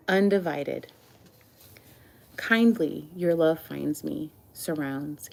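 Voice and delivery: measured love-poem recital with pauses between phrases; poetry reading. Acted. Reads own love poems aloud.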